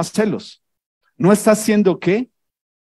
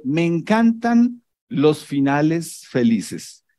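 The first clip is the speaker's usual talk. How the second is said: slow sarcasm; 3 semitones lower, 4 dB quieter, slower than usual. Retold or imitated. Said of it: "Porque le está pasando algo".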